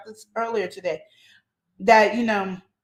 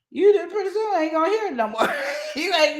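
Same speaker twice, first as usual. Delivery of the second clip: laughing; 8 semitones higher than usual. Real, not acted. Laughing at the idea.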